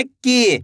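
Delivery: की with the ई vowel held long; stretched की. Shown as a demonstration. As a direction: draw out की, stretch the ee. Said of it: "खींच के करना है". (की को खींचकर बोलें)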